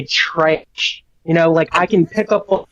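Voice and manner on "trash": "trash" said in a Missouri accent; regional pronunciation. Shown as a demonstration. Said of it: "or if they say".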